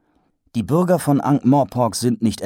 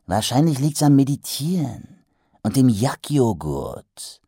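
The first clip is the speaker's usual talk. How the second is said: trader; 5 semitones higher than usual. Acted. Trader explains.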